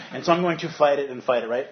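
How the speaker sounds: mock furious driver stuck in traffic; toddler tantrum. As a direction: rant like a two-year-old in a tantrum. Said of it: "I'm a two-year-old having a tantrum".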